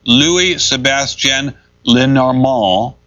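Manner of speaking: foreign name read out slowly and carefully; deliberate pronunciation of a difficult name. Real, not acted. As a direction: take the complicated French name slowly, piece by piece. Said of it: "if I read this slowly".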